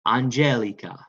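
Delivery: "Angelica" said deliberately, stressed on GEL; say-with-me model. Shown as a demonstration. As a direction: lead the class in "Angelica", leaning on GEL. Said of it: "Say it with me".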